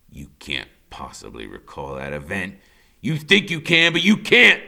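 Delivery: father's voice. A narrator's reading. Father denies boy's memory.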